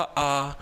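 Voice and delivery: imitated moan of a shot man; mock dying groan. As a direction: groan lightly, as if lying wounded. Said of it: "पड़ा पड़ा नु कर रहा था". (घायल की नकली कराह)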